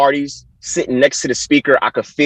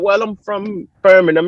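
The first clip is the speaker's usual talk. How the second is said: higher put-on English accent; 8 semitones higher than usual. Runner fooling UK locals, put-on English accent. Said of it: "start speaking in the accent".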